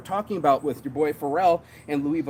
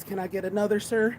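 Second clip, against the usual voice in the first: lightly voiced customer politely asking for more, higher; a hint of an eager buyer asking for another; begging customer; 5 semitones higher than usual. Customer begging the seller for another, mildly pleading.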